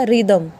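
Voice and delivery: रिदम with a plain R and falling tune; silent H. Shown as a demonstration. Teacher giving the answer to students, silent H pronunciation. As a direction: say रिदम with no H after R. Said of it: "H को silent करना".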